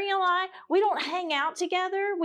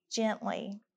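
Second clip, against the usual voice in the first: soft echo; 5 semitones lower, 6 dB quieter than usual. Shown as a demonstration. Speaker echoing scripture softly. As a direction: lower and softer. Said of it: "restore that person gently".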